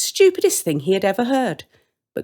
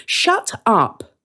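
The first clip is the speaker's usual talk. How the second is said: sisterly snap, a touch louder; mock annoyed; 6 semitones higher, 3 dB louder than usual. Sister snapping at her gloating brother, annoyed. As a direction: cut him off, fed up.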